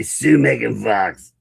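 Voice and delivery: very slow, put-on lawyer delivery; comic lawyer voice. Shown as a demonstration. Dad modeling the lawyer's line for his kid, drawn-out lawyer voice. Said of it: "Can you talk like that?".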